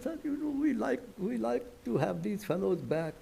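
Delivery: softly, a gentle diplomatic ask; retold gentle request. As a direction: ease the request in, quietly and politely. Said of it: "gently I said, uh, very gently".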